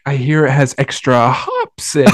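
put-on nervous kid's voice breaking briefly; mock nervous squeak near the end; imitated voice crack. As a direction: lightly mimic an uncomfortable teen's cracking voice. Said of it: "his voice cracks".

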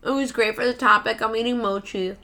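talking through brain freeze; cold mouth, words a bit stiff. Real, not acted. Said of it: "I got brain freeze".

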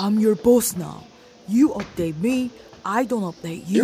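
lightly put-on tough-guy voice; dude voice. Disguised sister pulling rank on her brother, slight dude voice. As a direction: play the bossy man. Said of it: "supposed to be your dude voice".

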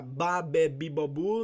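"ba, be, bi, bo, bu" as separate syllables; each of "ba, be, bi, bo, bu" its own beat. Shown as a demonstration. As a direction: recite "ba, be, bi, bo, bu" like a syllable drill. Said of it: "Separação de sílabas".

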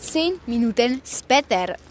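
slow, measured announcement; stretched-out caption voice; time-skip announcer. Pretend. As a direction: announce it like a title card. Announces time skip like title card.

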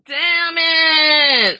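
loud, high, drawn-out curse; real outburst of annoyance; frustrated shout. Real, not acted. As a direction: yell it in exasperation at yourself. Frustrated at own mistake.

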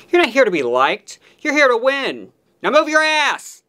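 furious chef. Pretend. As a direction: bellow orders from the pass, building. Mock anchor barks orders.

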